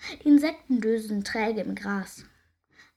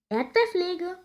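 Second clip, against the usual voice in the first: grunted; 8 semitones higher, slower than usual. A narrator's reading. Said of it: "grunzt Edda".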